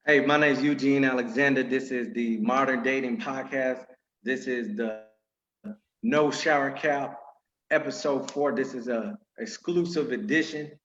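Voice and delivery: announcer-style show opener; podcast host intro. Acted.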